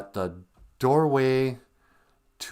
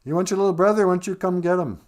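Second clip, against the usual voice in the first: mock singer; 10 semitones higher, 6 dB louder, faster than usual. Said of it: "the singer is like".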